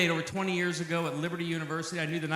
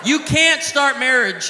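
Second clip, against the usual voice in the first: laughing shout; 5 semitones higher, 7 dB louder, slower than usual. Acted. Comedian scolding young guys.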